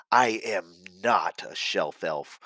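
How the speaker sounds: slow, mocking denial. Xylo mocking Agent Decker's shelf elf label, slow and scornful. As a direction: sneer it out slowly, scornful. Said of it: "Xylo mocked".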